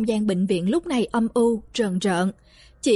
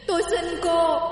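higher, begging through tears; wailing plea; 6 semitones higher than usual. A narrator's reading. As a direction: cry out the plea. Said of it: "gào khóc thảm thương".

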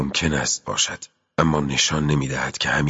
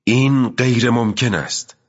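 much higher, louder cry of disbelief; shouted; 7 semitones higher, 3 dB louder than usual. Acted. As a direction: stamp and shout it out. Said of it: "پای بر زمین کوبید و فریاد کشید".

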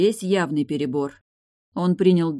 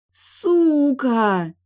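much higher, much louder furious scream; screamed in fury; 9 semitones higher, 8 dB louder than usual. A narrator's reading. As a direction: shriek it, shaking with rage. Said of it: "содрогаясь от ярости, закричала она".

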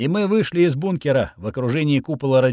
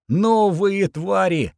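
angry shout; 6 semitones higher, slower than usual. A narrator's reading. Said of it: "прокричал я во весь голос со злобы".

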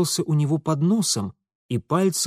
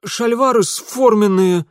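embarrassed; 8 semitones higher, 6 dB louder than usual. A narrator's reading. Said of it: "смущённо прошептал тот".

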